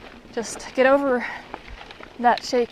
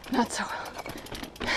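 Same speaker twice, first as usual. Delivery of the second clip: muttering; 10 dB quieter, much slower than usual. Real, not acted. After failing half of the climb.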